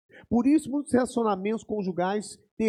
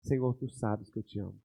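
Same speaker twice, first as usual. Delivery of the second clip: much softer, lower, a hint of retold weeping; softly tearful; 10 semitones lower, 8 dB quieter than usual. Peter answers Jesus in tears, low and soft.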